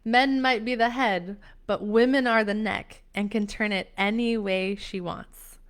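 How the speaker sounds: lightly imitated Greek mom accent; a hint of a Greek mother's accent. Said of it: "in her Greek accent".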